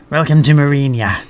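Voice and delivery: proud, welcoming chief engineer; a proud host greeting a guest; warm with pride. Acted. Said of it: "voice warm with pride".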